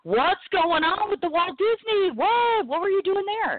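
high, slow, gushing squeal; excited squeal. Retold or imitated. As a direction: squeal it like a thrilled fan. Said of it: "I got amazingly excited".

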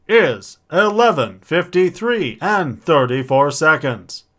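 stiff automated time announcement; talking alarm clock. Pretend. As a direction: read the time like a speaking clock. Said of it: "I married the talking clock".

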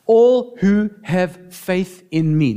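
slow, solemn words of Jesus; quoting Jesus. Retold or imitated. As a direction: draw each word out, solemnly. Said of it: "he said".

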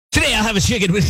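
DJ voice. Retold or imitated. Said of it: "you're like".

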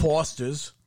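mock Aussie accent, beer-ad style; mock Australian. Host listing things Australians supposedly say, mock Australian accent. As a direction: say it like a cartoon Australian. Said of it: "Australians love saying that".

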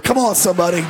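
preacher's call. Real, not acted. Preacher calls to congregation.

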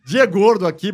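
laughing while saying it; trying not to crack up; stifled giggles. Real, not acted. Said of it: "A gente não para de rir". (falando segurando o riso)

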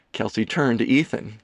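ordinary delivery, nothing marked

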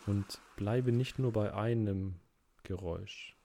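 unhurried meditation guide with long pauses; measured, calm relaxation-exercise voice; guided relaxation. Acted. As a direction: ease the listener into rest, phrase by phrase.

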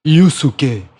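low, spaced repetitions of the name; deadpan name introduction. Acted. Dubber joking about his own supposed name, low deadpan repetition. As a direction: intone the name over and over, pausing between.

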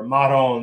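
"Maron" said the Italian way, as "Marò"; Italian exclamation. Shown as a demonstration. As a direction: toss out "Maron" like a native Italian. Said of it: "Italians say".

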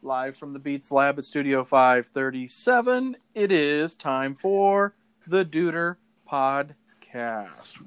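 grand announcer intro; ringmaster. Acted. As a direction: ringmaster calling the crowd. Ringmaster style show intro.

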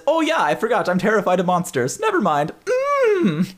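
high, nervous little voice; Klaus voice. Acted. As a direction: back out timidly, voice up high. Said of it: "then he says".

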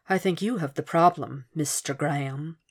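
soft, husky menacing caller. Acted. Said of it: "The voice was husky".

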